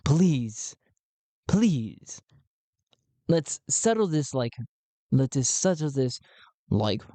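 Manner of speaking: lightly voiced peacemaker; pleading mediator. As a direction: appeal for order, drawing out each please. Talti mediates the quarrel.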